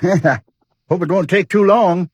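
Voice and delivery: slow, easy chuckle through the words; amused, drawn-out chuckle; chuckling. Acted. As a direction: laugh it off, in no hurry. Chuckling host eager to leave.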